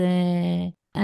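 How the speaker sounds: normal talking voice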